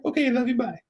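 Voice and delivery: very high falsetto sign-off; mock voicemail farewell in falsetto; high-pitched girlfriend imitation. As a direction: mimic her goodbye way up high. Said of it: "in a really high-pitched voice".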